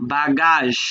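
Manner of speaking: বাগাস with a hard g, French pronunciation; hard first g. Shown as a demonstration. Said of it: "প্রথমটা গ".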